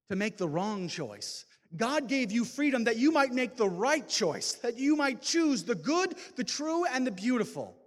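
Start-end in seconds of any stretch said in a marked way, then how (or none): none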